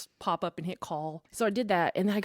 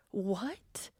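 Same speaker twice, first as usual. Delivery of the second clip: stunned breathy whisper of disbelief; whispered what; 5 dB quieter than usual. Retold or imitated. Reacting to the inner voice, a stunned whisper. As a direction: barely voice it, shocked.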